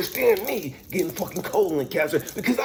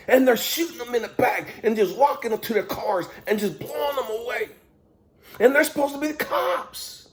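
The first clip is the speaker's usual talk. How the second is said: angry rant; 4 semitones higher than usual. Real, not acted. Ranting at God about police.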